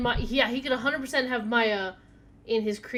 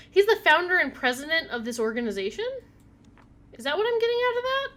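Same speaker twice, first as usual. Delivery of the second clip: incredulous; 8 semitones higher, 8 dB louder, faster than usual. Real, not acted. Shocked at the game's reveal.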